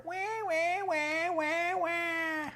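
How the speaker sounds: high, quiet wah-wah whine; mock whining. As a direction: imitate a whiner's drawn wail. Imitates whining after naming whiner.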